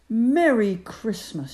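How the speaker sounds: loud shout into the party; shouted greeting. Acted. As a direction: burst in shouting it. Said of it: "shouted Ben".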